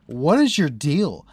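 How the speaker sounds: drawn-out, exasperated retold challenge. Streamer retelling confronting a rude player, exasperated. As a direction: stretch it out in mock disbelief.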